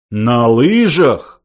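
loud, slow, dragged outraged cry. A narrator's reading. Old man crying out indignantly at the skiing idea. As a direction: cry it out in disbelief. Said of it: "вскричал старец".

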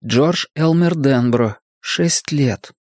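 slow, measured read-aloud. A narrator's reading. Richie reads George's album label, slow reading. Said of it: "прочитал Ричи".

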